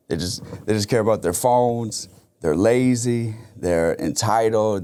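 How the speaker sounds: a hint of a sneering elder; mocking older people. Older people complaining about kids, lightly mocked. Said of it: "it's normally like they have no work ethic".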